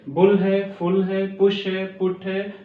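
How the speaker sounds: बुल, फुल, पुश, पुट with an oo sound; short oo vowel. Shown as a demonstration. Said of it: "means ऊ निकलेगा इसका sense".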